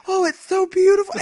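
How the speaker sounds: high, loud gushing over the woodpecker; mock gushing. Admiring the drawn woodpecker, high and loud gush. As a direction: rave about it with wonder. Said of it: "and I was like".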